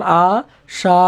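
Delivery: আশা with its final আ held long; drawn-out open vowel. Shown as a demonstration. Teacher shows how open syllables can be pulled, আশা drawn out. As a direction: open the mouth and stretch the আ of আশা. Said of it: "মুখ খুলে টানা যায়".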